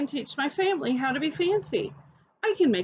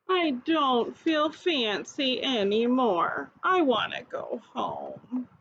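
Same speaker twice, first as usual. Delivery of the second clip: slow, deflated voice; sad; slower than usual. Acted. Nancy after the spill, sad and slow. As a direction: let the fancy feeling drain out of it.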